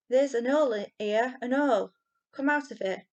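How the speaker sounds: high, loud excited cry of discovery; piping up excitedly. A narrator's reading. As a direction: shout out the find like a thrilled kid. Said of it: "piped up. excitedly".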